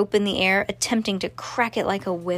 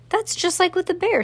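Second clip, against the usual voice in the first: clipped, much higher, impatient; 11 semitones higher than usual. A narrator's reading. Cass cutting off the lion tamer, impatient. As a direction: hurry it along, fed up. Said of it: "said Cass impatiently".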